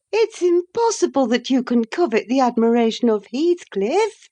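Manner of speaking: put-on a proud lady scolding a foolish girl; scornful young lady.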